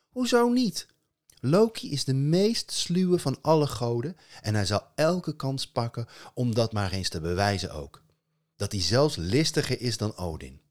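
put-on high, loud young girl; girl's voice. Asta convincing her parents, high and loud. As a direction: argue like a keen girl.

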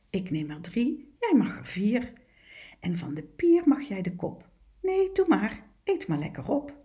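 sweet, eager little fish, lightly voiced; friendly clownfish. Clownfish invites the other fish to play and share, lightly voiced kindness. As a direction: coax your friend out to play.

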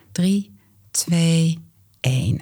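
whisper. Acted. Countdown before inhale.

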